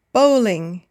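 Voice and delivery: BOWL-ing, with a light ending; first-syllable stress. Shown as a demonstration. Teacher gives learners the example "bowling", first syllable stressed. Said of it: "stressing, of course, the first or second syllable".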